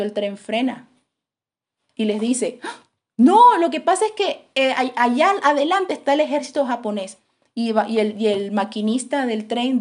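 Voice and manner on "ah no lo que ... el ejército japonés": high, loud burst of alarm; alarmed warning. Retold or imitated. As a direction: blurt out the danger ahead. Maquinista avisa del ejército japonés. (aviso alarmado del maquinista)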